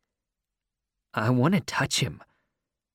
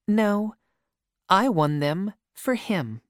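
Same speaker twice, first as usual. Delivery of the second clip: lightly voiced girl, higher pitch; girl's voice; 8 semitones higher than usual. A narrator's reading. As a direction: voice her a little higher. Girl's line in dialogue.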